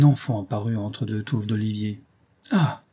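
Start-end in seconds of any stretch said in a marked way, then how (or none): 2.5-2.8 a short higher gasp of surprise; mild surprised ah; surprised cry. A narrator's reading. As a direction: call out at the sudden sight. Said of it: "m'écriai-je".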